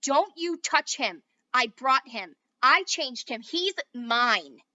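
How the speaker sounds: loud heated squabble; kids' quarrel. A narrator's reading. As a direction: argue hotly over the toy. Children quarrel.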